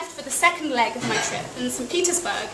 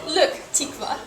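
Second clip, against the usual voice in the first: lightly imitated Russian accent; 3 semitones higher than usual. Russian hostess addressing her guest, lightly imitated Russian accent. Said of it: "in her accent".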